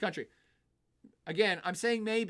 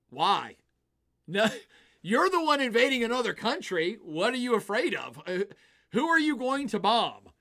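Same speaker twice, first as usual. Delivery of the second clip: louder and higher, exasperated mock questions; incredulous rant; 3 semitones higher, 6 dB louder than usual. Sane people questioning Putin, loud and incredulous. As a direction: demand answers in disbelief.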